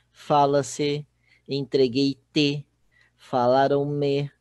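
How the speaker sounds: slow, loud "Fala-se, entreguei-te, falaram-me", each set apart; emphatic example-giving. Shown as a demonstration. Teacher showing pronouns after the verb, slow and emphatic. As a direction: draw out "entreguei-te" and "falaram-me" loudly for the class.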